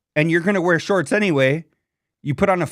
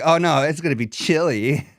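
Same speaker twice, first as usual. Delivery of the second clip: mocking wimpy voice; 2 semitones lower than usual. Host imitates how the guy sounded, light mock fret. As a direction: mimic a fusser fretting over the chill. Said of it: "I don't know why he has to say it like that".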